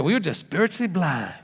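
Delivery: put-on lightly accented Baptist pastor; pastor's accent. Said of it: "That's the accent he used".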